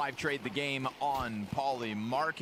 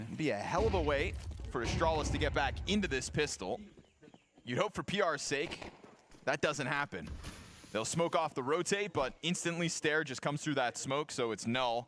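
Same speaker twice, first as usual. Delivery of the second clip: lively play-by-play commentary; esports caster. Acted. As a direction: call the round like a caster. Live play-by-play casting.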